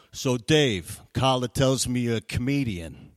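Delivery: lightly voiced mob-movie dad; Goodfellas-style father. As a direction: end on a slow, weighty challenge. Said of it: "right out of Goodfellas".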